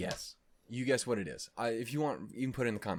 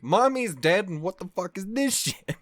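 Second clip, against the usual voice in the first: loud, laughing outraged rant, higher; hammed-up freakout over a cartoon; mock meltdown; 7 semitones higher, 8 dB louder than usual. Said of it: "proceeded to have a fucking meltdown".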